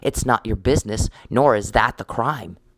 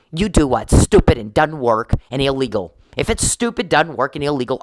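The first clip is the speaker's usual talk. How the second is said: angry; 3 semitones higher, 4 dB louder than usual. Real, not acted. Ranting at opponent.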